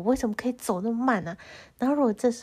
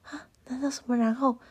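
confused whiny protest. Retold or imitated. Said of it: "我就想说".

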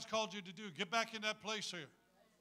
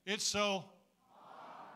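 It's so hard, said again louder with a groan; louder mock groan; 3 semitones higher, 3 dB louder, much slower than usual. Shown as a demonstration. Preacher leads the crowd, louder groan again. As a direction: congregation pushed to really groan hard. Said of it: "let's say it again".

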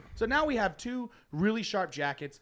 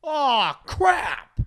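louder, higher exclamation; retold outburst; 9 semitones higher, 12 dB louder than usual. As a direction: blurt it out in dismay. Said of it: "Charles goes".

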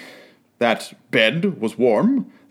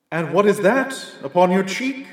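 a lightly voiced solemn spirit, higher; ghostly spirit voice; 5 semitones higher than usual. A narrator's reading. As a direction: speak as a calm, grave ghost. Ghost's lines in the tale.

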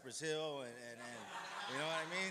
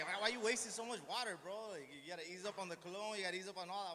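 higher, louder mock nagging wife; imitating Liz; 5 semitones higher, 3 dB louder than usual. Wife scolding him about showers, mock nagging voice. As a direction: tease him about the water and cologne.

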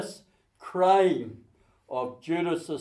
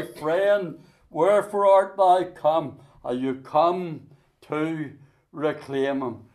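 voice of the Lord; 4 dB louder than usual. Acted. Lord's words to backslider.

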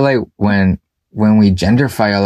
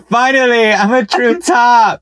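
laughing shout; 14 semitones higher than usual. Real, not acted. Laughing exclaim.

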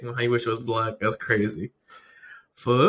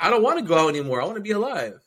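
fast high quote; 6 semitones higher, much faster than usual. Retold or imitated. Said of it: "he was like".

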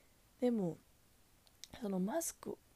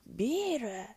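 louder clerk finally raising the voice; suddenly louder; 3 semitones higher, 7 dB louder, slower than usual. Retold or imitated. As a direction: say it clearly louder this time. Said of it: "その声出るんやったら最初から出しといてや".

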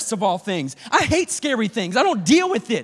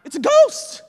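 shrieking high and loud in panic; frightened shout; 10 semitones higher, 5 dB louder than usual. Acted. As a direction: cry out as if you've seen a ghost. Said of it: "The disciples scream".

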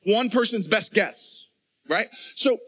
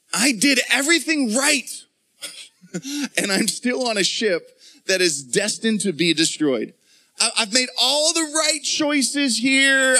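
frustrated; 4 semitones higher than usual. Retold or imitated. Paul's frustration voiced in sermon.

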